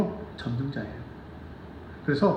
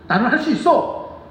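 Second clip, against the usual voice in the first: slow, higher, louder i-can-do-it; confident declaration; 7 semitones higher, 4 dB louder than usual. Shown as a demonstration. Pastor showing the congregation a confident slow i-can-do-it. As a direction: declare it firmly, slowly. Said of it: "무기력하게 살지는 마세요".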